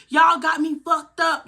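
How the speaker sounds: high, slow mock yell of an angry mother; mama yelling. Mother confronting the kids, high slow yell. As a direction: play mama storming in, furious and high. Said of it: "she like".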